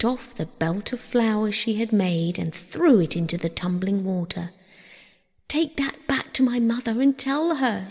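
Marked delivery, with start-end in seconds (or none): 5.5-7.9 high, urgent entreaty; pleading. A narrator's reading. Persephone entrusts her belt to the river, high pleading. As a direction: plead in a raised pitch. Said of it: "she pleaded".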